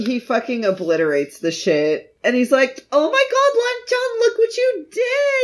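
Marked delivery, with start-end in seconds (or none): 2.9-5.4 mock scolding. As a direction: scold him in a high, hammed-up voice. Acted scolding over a mess.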